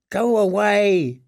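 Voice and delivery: high, drawn-out plea; desperate prayer. A narrator's reading. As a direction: pray for the danger to pass, voice pitched high. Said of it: "he prayed".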